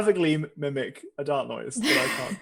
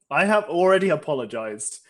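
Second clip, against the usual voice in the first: put-on louder caricature German accent; 5 dB louder than usual. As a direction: protest in a hammy German accent. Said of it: "caricature of German accent".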